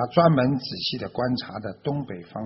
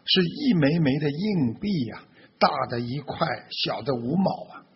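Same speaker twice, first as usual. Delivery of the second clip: higher voice, raised in delight at the rain; loud exclamation; 5 semitones higher, 3 dB louder than usual. Acted. Farmer hailing the rain as coins from heaven, loud exclamation. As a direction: call it out loudly, easing off at the end. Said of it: "他大声地说道".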